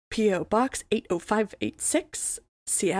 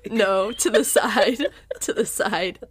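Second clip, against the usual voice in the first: laughing. Real, not acted. Laughing about the spit take.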